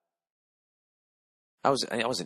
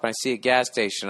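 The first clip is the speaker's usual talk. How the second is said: ordinary delivery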